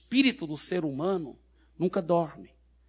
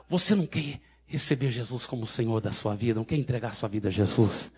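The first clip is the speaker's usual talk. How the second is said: lower, calm pastoral voice; gentle reassurance; 3 semitones lower than usual. Retold or imitated. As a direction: settle her gently and invite her. Reassures frightened woman after deliverance.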